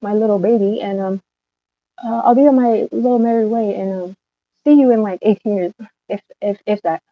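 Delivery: mock the stranger breezily; sarcastic mock acceptance. Mocking the stranger who has her baby, sarcastic. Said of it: "and just be like".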